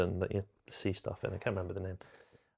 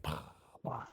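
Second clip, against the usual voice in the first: soft puffs of air; little mouth-made puff effects; imitated disintegration noise; 5 semitones lower, 13 dB quieter than usual. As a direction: imitate someone bursting into ash. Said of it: "Voldemort's like".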